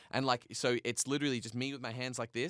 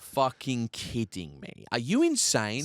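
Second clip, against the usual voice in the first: retold fuming; 4 dB louder, slower than usual. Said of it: "I'm fuming at him".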